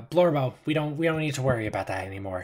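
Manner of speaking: calling off a guard. Acted. Woman tells Blorbo to stand down, quick. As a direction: wave off the big man quickly.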